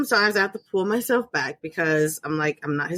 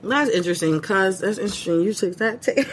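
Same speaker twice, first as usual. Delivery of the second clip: mouth full; 3 semitones lower than usual. Real, not acted. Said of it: "sorry, Jolly Rancher in my mouth".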